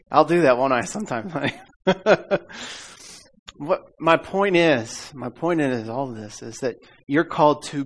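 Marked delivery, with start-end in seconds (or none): none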